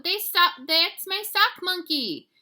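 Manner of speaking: high, loud, slow protest; indignant. A narrator's reading. Kitty boy protesting to the Martians, high and loud. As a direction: claim your toy back, loud. Scapito claims his toy.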